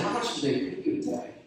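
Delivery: playful rabbi. Acted. Rabbi teasing the stern Roman sentry, high and playful. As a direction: toss it up sky-high, teasing the guard.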